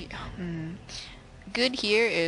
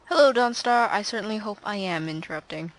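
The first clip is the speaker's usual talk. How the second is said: smug; 5 dB louder than usual. Acted. Voicing hero's line to rival.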